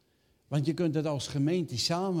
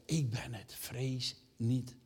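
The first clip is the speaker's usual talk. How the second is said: loving reassurance; 5 dB quieter, slower than usual. Acted. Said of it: "Jezus vol liefde".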